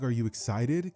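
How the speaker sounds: flat, emotionless question; monotone voice. Acted. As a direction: ask it with no feeling at all. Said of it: "Kinda like in a monotone voice".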